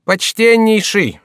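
high, loud, slow mock address; mocking jester. A narrator's reading. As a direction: stretch it out like a sneering jester. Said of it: "сказал Шико". (насмешливое обращение шута)

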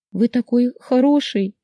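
high, slow, tearful cry of thanks; a mild sob breaking through the words; sobbing. A narrator's reading. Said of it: "всхлипнула я".

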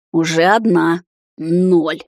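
menacing countdown. A narrator's reading. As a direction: count her down, threatening. Counting down a threat.

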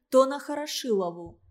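ordinary delivery, nothing marked

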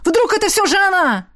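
sharp high cry to stop him; high urgent exclamation, afraid for her; exclaiming. A narrator's reading. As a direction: call out in sudden alarm, pitched high. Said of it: "воскликнул Родерик".

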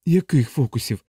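mildly alarmed question; understated rising anxiety; growing alarm. Acted. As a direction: exclaim with a touch of worry. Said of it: "з наростаючою тривогою вигукнув капелан".

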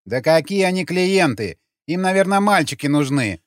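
aggrieved woman's complaint; offended grumble. A narrator's reading. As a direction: grumble back, sounding wronged. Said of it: "обиженно пробубнила она".

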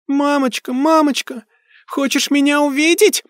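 put-on high, taunting ghost child; mocking shriek. A narrator's reading. Ghost girl mocking her grieving mother. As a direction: sneer it in a shrill child's squeal. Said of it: "издевательски взвизгнул призрак".

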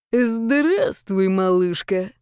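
скрипучий злобный голос старика; spiteful creak. Acted. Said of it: "злобно проскрипел и дедушка". (злобный скрипучий голос)

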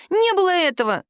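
high shrieking cry; shrieked. A narrator's reading. Woman shrieks denial at the captain. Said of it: "завизжала".

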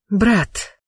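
tender little fairy voice; pixie. Acted. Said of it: "Нежный голосок феи".

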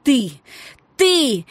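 high loud shriek of rage. A narrator's reading. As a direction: scream it at him, fists flying. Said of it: "визжала она".

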